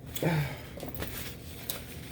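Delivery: long soft exhale; sigh. Real, not acted. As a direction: let out a long, quiet sigh. Sighs after eating.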